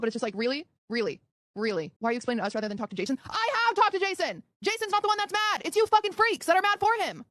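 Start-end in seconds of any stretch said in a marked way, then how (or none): 0.4-1.9 exasperated. Real, not acted. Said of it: "crash out moment". 3.3-7.2 angry raised rant; venting at the chat in frustration; crash out. Real, not acted. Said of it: "she kinda has a crash out moment".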